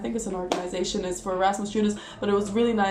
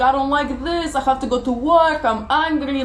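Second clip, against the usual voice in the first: mock angry commuter; 5 semitones higher, 7 dB louder than usual. Quoting angry city commuters.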